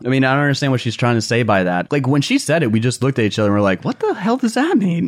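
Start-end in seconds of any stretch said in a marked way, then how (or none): 3.8-5.1 baffled. Retold or imitated. Retelling their baffled reaction.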